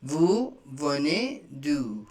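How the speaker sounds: Vous venez d'où said slowly, twice; slow repeat. Shown as a demonstration. Teacher repeating the question slowly for students. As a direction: spell it out slowly for learners. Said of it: "Where do you come from".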